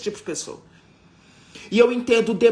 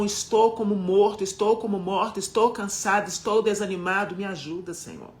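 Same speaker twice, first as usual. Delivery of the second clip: clamor sofrido a Deus, cada frase caindo no "Senhor"; oração clamando. Acted. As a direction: ore como quem está no fim das forças. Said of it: "Não tenho vergonha de gritar pra ele". (pregadora mostra como clamar a Deus, oração sofrida)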